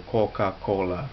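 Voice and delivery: "Coca-Cola" as a Chinese speaker would say it; Chinese-accented demo of "Coca-Cola". Shown as a demonstration. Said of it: "I'd say it like a Chinese person".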